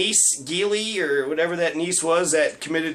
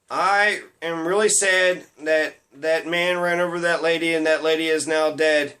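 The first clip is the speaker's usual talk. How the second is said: inauthentic sadness. Acted. Comic imitating an insincere tweet about a tragedy, mock-sad. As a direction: feign sadness over a tragedy, measured and insincere. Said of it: "sounds so inauthentic".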